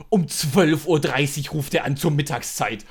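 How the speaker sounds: put-on slow, indignant old grandmother complaint; lightly voiced grandmother complaining about the call; indignant grandma. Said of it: "fängt besagte Oma halt an".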